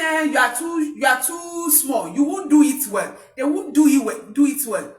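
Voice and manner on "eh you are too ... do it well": dismissive parent. Retold or imitated. Parent dismisses a child as too small, scoffing. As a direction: wave the child off, mockingly. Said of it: "Don't say".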